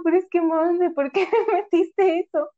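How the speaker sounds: high, exasperated mother voice; mock scolding with a laugh slipping in; imitated mom scolding. Retold mother scolding her.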